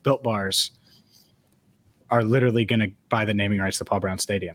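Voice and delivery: deadpan, matter-of-fact fake announcement; straight-faced. Shown as a demonstration. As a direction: say the joke as if it's plain fact. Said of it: "I'll say it with a straight face".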